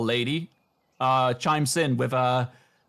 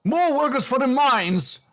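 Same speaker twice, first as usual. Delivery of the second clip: much higher, louder gleeful exclamations; gleeful old man; 10 semitones higher, 4 dB louder than usual. Acted. Old man puppet gloating about the mines, loud and gleeful. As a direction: crow with hammed-up joy. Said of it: "says the old man".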